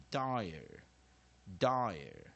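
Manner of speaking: "dire" with the A reduced to a weak uh; weak vowel A. Shown as a demonstration. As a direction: let the end of "dire" relax into uh. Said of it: "所以A念弱母音".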